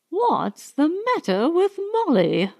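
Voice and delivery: angry thought. A narrator's reading. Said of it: "in a blaze of anger".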